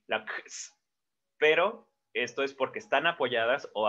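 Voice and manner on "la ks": voiceless "ks" hissed out for "X"; isolated consonant sounds. Shown as a demonstration. Teacher showing consonants heard without a vowel, "X" as voiceless ks. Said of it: "la C y la S ahí".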